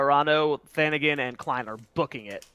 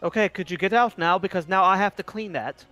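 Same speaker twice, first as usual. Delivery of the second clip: elf voice; 4 semitones higher than usual. Acted. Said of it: "sorry, elf voices".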